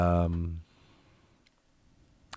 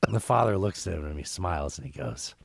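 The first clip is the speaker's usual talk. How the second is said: Gilbert Gottfried voice. Acted. Podcaster telling the Aristocrats joke to his cohost, as Gilbert Gottfried. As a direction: tell the filthy joke in a squawking Gilbert Gottfried voice. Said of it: "I need to not do the Gilbert voice".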